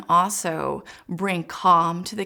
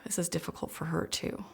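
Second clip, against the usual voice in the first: softer, tender acknowledgement; gentle and soft; 2 semitones lower, 10 dB quieter than usual. Shown as a demonstration. Parent calming her stressed daughter, soft and tender. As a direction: ease the words out gently for her. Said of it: "I have a breath for my daughter".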